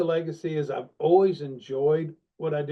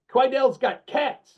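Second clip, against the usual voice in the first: slow, higher, Puerto Rican lilt on "Quidel's got cats"; imitating Steven's accent; 10 semitones higher, 4 dB louder, slower than usual. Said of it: "He goes".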